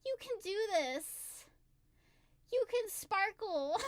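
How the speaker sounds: slow, tender words of encouragement; lightly acted kindly inner voice; Chika's gentle wisdom. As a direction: reassure gently, with pauses between phrases. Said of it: "she holds my hands gently, and she says".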